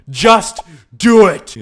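slow, high, roaring motivation; Shia LaBeouf. Acted. Gamer urging balls to merge, exaggerated shout. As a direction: shout each word as its own command. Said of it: "Shia LaBeouf would be very upset".

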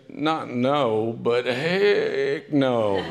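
slow, drawn-out laughing refusal; Julia's refusal. Retold or imitated. Julia Grant refusing the double date, slow laughing. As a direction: stretch out the heck no. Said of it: "she probably said".

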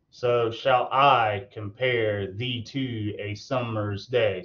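slow, each beat marked; scanned line. Shown as a demonstration. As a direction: read it out beat by beat, slowly. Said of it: "So if you look, unstressed, stress".

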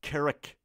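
"کرک" on its own, as "ke-rek"; the first part of the word, "کرک", isolated; syllable drill. Shown as a demonstration. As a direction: drill "کرک" as a separate chunk. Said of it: "تلفظ صحیح این لغت".

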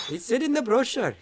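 high, loud, whiny customer; whiny mock complaint. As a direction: whine it like a complaining tourist.

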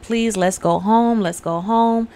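mildly acted plea, drawn out; pleading. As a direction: lightly beg to leave, stretching the words. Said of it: "Eve is pleading with her dad".

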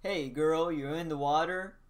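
bright, supported character greeting; supported voice line. Shown as a demonstration. Voice actor reads a character line in chest voice. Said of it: "what I'm supposed to sound like".

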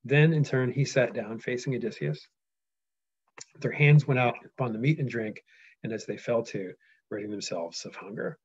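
measured epic read; steady reading-aloud voice. Acted. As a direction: read it out like a storyteller.

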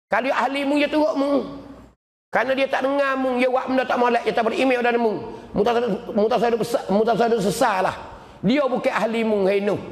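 high-pitched, insistent voicing of God; stern rebuke. Preacher voices God admonishing Noah about his son, stern rebuke.

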